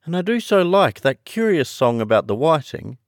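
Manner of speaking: high-pitched, keen storybook heroine; Alice. Acted. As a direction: play an eager Alice, high and loud.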